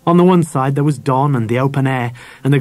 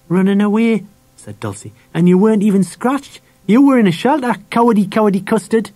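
put-on high-pitched childish jeer; taunting little sister; 8 semitones higher than usual. A narrator's reading. Dulcie mocks her brother as a coward, taunting.

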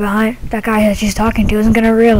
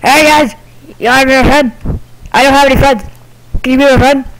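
lonely ghost voice; 3 semitones higher, faster than usual. Acted. Ghost begs people for friendship.

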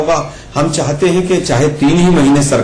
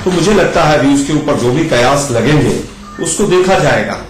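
echo; 6 semitones lower than usual. Real, not acted. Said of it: "बहुत इको आ रही है मेरे उसमें ना".

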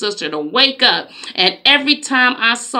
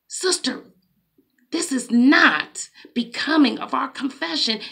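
non-confrontational; 3 semitones higher, 3 dB quieter than usual. Retold or imitated. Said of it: "It was not confrontational".

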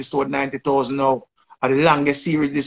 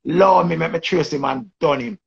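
loud, higher mock cussing rant; hammed-up angry cuss, louder and higher; imitating Queenie's outburst; 5 semitones higher, 4 dB louder than usual. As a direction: shout it like she's kicking off on live. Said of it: "she just kick out and say".

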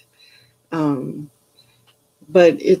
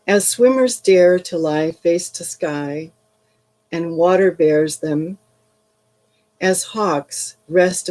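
poem reading. Acted. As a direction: read it like a poem, unhurried. Rereads poem for reflection.

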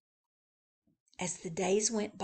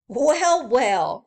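chuckling; 5 semitones higher, 9 dB louder than usual. Acted.

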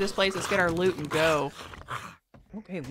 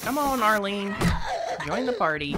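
calling out; 4 semitones higher than usual. Real, not acted. Calling zombie to fight.

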